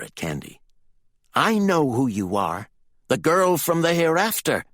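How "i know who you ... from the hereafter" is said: high, heated accusation; furious. A narrator's reading. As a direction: accuse her, pitch climbing. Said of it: "He was still in a fighting fury".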